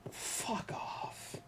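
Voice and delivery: breathy whisper, no voice; whispered fuck off. Real, not acted. Dismissing chat, whispered. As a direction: hiss it under the breath.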